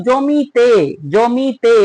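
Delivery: জমিতে stretched syllable by syllable to bring out তে; ending pointed out. Shown as a demonstration. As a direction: draw out the মি and তে of জমিতে. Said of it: "ওই যে, যে কার তে আছে".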